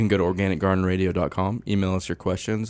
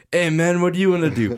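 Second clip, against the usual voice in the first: higher, casual dude voice; laid-back dude voice; 10 semitones higher, 6 dB louder than usual. Pretend. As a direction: voice a chill ant buddy. Voicing ants as dudes.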